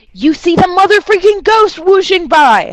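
big spooky storyteller exclamation; excited reveal. Acted. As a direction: jolt the players with the ghost. GM springs the ghost reveal.

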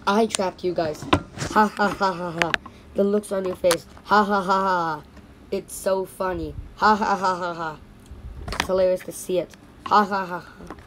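loud mocking villain cackling at the captives; gloating villain laugh. Villain taunts the trapped toys, loud mocking laughter. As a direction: crow over them with big ha ha has.

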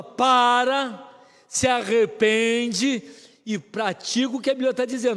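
loud, slow divine command; God commanding. Retold or imitated. Preacher voicing God's order to repent, loud and slow. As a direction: thunder it out slowly, word by word. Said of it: "Deus fala".

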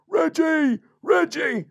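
high, loud panicked crab cry; frightened little crab yelling for a pal; land crab Wilfred. Acted. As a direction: call out in alarm in a squeaky voice. Crab calls out while being swallowed.

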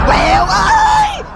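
long drawn-out shout; calling out. Acted. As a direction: call him from far away. Mother calling out to son.

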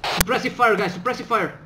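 loud urgent command; shouted order. Acted. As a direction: bark the order over gunfire. Ordering fire in combat.

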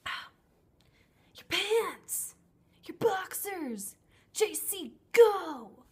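high, loud hammed-up yell; mocking shout. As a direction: shriek it like a bad love scene. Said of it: "she goes".

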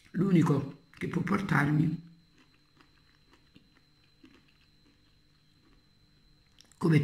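speaking between bites; chewing while talking. Real, not acted. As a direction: mouth partly full of food. Seen 3: Holds bitten fried claw; lips and cheeks show chewing while speaking.

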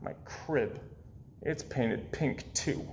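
whispered, slow grumble; slow whispered complaint; muttered whisper. A narrator's reading. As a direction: whisper it sulkily to yourself.

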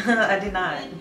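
a short laugh into the words; laughing admission. Real, not acted. Speaker admits to viewers she didn't want to, laughing. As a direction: own up with a small chuckle.

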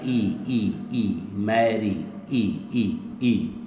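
ई held long and slow, as a vowel demo; drawn-out ee. Shown as a demonstration. Teacher isolating the ee sound of मैरी for students. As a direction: sing out ई slowly so the class hears it. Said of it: "वाई से sound क्या आ रही है".

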